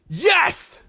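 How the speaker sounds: high, loud whoop of agreement; elated cheer. Acted. Staff agreeing to celebrate, elated cheer. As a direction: cheer along eagerly.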